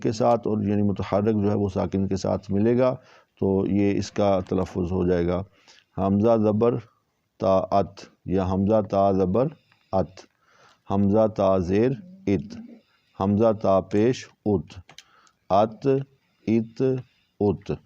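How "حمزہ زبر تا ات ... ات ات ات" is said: "ات" with a thin, light ت, not heavy; "ات" said crisp and light; light ta spelling drill. Shown as a demonstration. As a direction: spell out hamza-ta slowly, keeping ت thin. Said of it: "یہ تا کا تلفظ ہم نے کیا، اس کو موٹا نہیں کیا".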